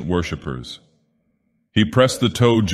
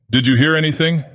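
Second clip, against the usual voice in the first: higher, demanding and threatening; harsh accusing question; 9 semitones higher than usual. Acted. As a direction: press him like a suspect. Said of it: "harshly and ... threatening and accusing".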